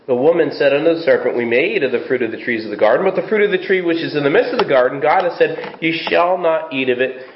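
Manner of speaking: brisk, quick Bible reading; fast scripture read from the pulpit. Acted. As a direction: read the verses out at a fast clip. Reads scripture aloud.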